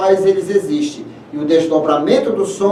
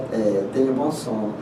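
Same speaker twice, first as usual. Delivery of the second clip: much lower, softer goodnight; deep low voice; 9 semitones lower, 8 dB quieter than usual. Pretend. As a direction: drop the voice low and soft. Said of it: "Olha só".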